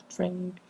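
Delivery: tiny mouth-made transition chime; imitated transition sound. Shown as a demonstration. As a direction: voice a quiet little sound effect.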